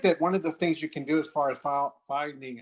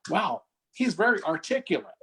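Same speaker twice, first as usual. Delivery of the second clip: higher, imitating a naive compliment; innocent surprise; 4 semitones higher than usual. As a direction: quote an innocently impressed remark. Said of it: "hear people say it innocently".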